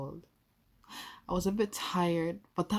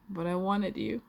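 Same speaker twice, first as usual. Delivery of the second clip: higher and louder, stress on "wanted", rising end; urgent insistence; 4 semitones higher, 5 dB louder than usual. Acted. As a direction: burst out the longing. Torn between wanting and fear.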